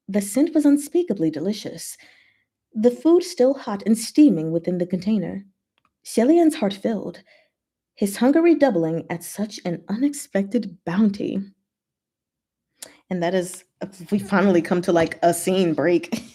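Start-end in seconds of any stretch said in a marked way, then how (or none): 0.1-11.4 story narration. A narrator's reading. Reads novel narration aloud.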